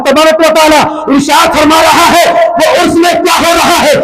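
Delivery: strained, impassioned sermon delivery; fervent preaching. Acted. Preacher relaying Allah's question to the angels, fervent preaching. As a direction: proclaim it to the congregation.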